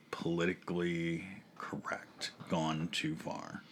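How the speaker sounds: slow dramatic whisper. Acted. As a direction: whisper it like a scandal.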